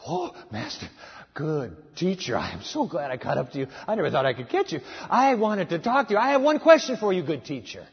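lightly acted breathless seeker; breathless young man. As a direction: pant it out like he ran to catch up. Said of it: "comes huffing and puffing".

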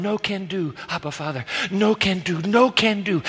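hushed anguished prayer; quiet sobbing plea. Acted. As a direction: plead softly in anguish. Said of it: "as he's sobbing alone".

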